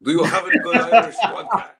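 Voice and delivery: put-on Irish accent. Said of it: "doing an Irish accent".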